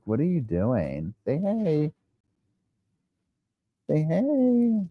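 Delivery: high, squeaky put-on puppy voice climbing up; dog's voice. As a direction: voice the little dog, cutesy. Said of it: "He's like".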